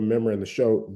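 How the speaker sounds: quick Southern slip, "remembering" clipped to "membering"; Southern accent. Real, not acted. Recalling a TV show to listeners, in a Southern accent. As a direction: say "remembering" as Southern "membering", first syllable dropped. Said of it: "say something in a Southern accent".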